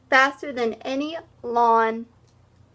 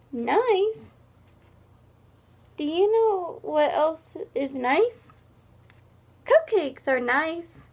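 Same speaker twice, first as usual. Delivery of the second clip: higher, slow, wounded protest; offended hippo; 5 semitones higher than usual. Acted. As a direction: sulk like a hurt hippo. Hippo's hurt protest voiced.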